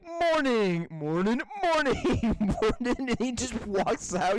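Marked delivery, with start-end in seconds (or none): 0.0-3.0 breezy mock-British greeting, pitch hopping; Stewie. Retelling him walking past guards, imitated singsong greetings. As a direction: imitate a cartoon baby greeting passers-by. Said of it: "Stewie just, like, walks by".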